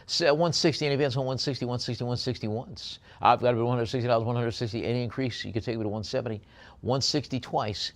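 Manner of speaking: rapid auctioneer patter calling the price; auctioneer bid call. Acted. Auctioneer calling bids to online bidders, fast patter. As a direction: rattle off the bids like a live auction.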